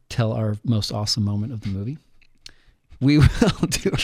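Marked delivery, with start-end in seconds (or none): 3.0-3.9 tripping over "We will" with a laugh; fumbling "We will", breaking into a laugh; stumbling over words. Real, not acted. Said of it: "sorry, I stumbled over that".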